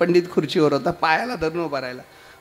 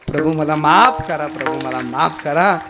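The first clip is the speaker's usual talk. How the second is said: pleading for forgiveness; 3 semitones lower than usual. Acted. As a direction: beg the Lord, stretching the words. Devotee begs the Lord's forgiveness.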